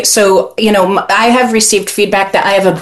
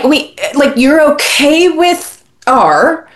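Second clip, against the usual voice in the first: incredulous retort; 4 semitones higher, slower than usual. Retold or imitated. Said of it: "And so I'm like".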